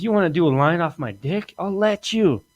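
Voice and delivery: building, incredulous comic rant; worked-up rant. Acted.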